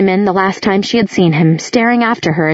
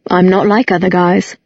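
a hint of lofty smugness; lightly superior, pleased with himself; supercilious. A narrator's reading. Jace brushing off Clary's teasing, mildly smug. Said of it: "with a supercilious look".

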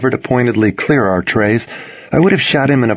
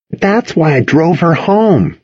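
slow earnest Toby; 8 semitones higher, slower than usual. A narrator's reading. Toby explaining.

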